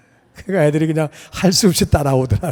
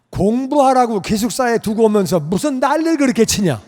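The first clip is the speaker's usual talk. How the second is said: mock divine scolding; 6 semitones higher than usual. God scolds him in retold dialogue.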